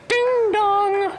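high sung doorbell ding dong; doorbell chime. Acted. Imitating a doorbell again.

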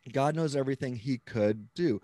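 COULD given extra weight; teacherly emphasis on "could"; stress on COULD. Shown as a demonstration. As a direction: lean firmly on the word "could". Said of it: "the heavy emphasis on the word could".

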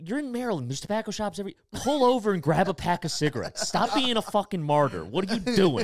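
high, loud imitated berating; mock sponsor rant. Sponsor scolding him to buy smokes, high mock rant. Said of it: "He's like".

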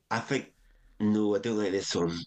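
lightly imitated Scottish accent. Comedy head rejecting the second idea, imitated Scottish accent. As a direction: turn it down in mock Scots. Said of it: "I was Scottish, by the way".

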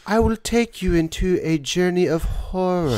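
Edgar Allan Poe voice. Acted. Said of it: "I thought he talked like".

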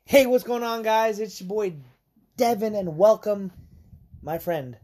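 hyped vlogger greeting; youtuber intro voice. Acted. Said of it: "You threw me off there".

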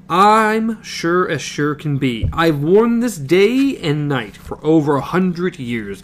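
put-on slow, earnest old woman; lightly voiced old woman, slow and certain; old mother. Old mother insists the gunslinger take her cross.

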